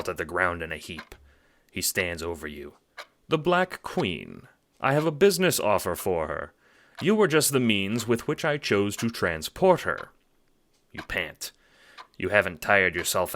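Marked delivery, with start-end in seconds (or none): 3.3-10.1 a hint of a cool, superior gentleman; mildly smug villain explaining; lightly voiced suave villain. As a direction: talk down to him, calmly. Villain Scratch speaks.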